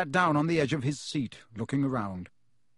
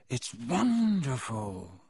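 quiet happy wonder; 2 semitones lower, much slower than usual. A narrator's reading. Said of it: "said Harry happily".

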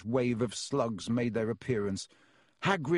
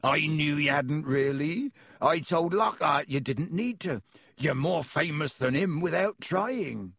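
a friendly giant welcoming guests in; half-giant host greeting visitors at the door; Hagrid voice; 4 semitones higher than usual. Acted. Hagrid reassuring.

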